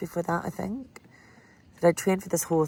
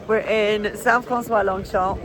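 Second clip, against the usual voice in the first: laughing while talking; 4 semitones higher, 5 dB louder, slower than usual. Real, not acted. Laughing through the news.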